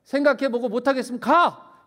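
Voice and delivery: loud, high, blunt ultimatum; Jesus telling followers to leave, loud; firm ultimatum. Acted. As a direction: lay down the terms without softening. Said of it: "이런 얘기 아니에요".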